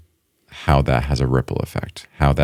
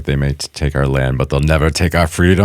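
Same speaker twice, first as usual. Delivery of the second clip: Braveheart quote. Acted. Co-host quoting the Braveheart battle speech, lightly rallying. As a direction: quote the film hero with a touch of rallying force. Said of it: "the quote that he says".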